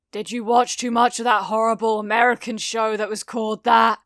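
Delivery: scornful, fast and sneering; mock him with a sneer. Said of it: "Kacchan mocked".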